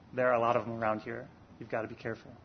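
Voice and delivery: low, softened voice, dropping away; hushed warning. Retold or imitated. Said once the man has passed.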